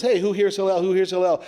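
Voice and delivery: a heckler taunting the sage again; mocking taunt. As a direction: jeer the name at his doorway. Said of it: "does the same business".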